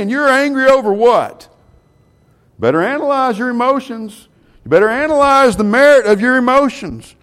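fiery preacher voice; preaching at full force. Acted. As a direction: push the congregation hard on their anger. Preaches on anger.

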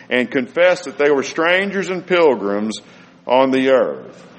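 scripture reading. Acted. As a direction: lift the voice for the sacred text. Reading Hebrews aloud.

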